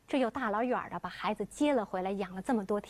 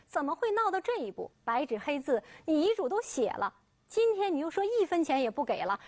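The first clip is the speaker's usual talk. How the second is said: anxious protest; 3 semitones higher than usual. Acted. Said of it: "李守仁急了".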